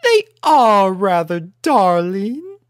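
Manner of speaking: posh pony lady voice; refined lady. A narrator's reading. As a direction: purr it elegantly. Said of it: "turned her head".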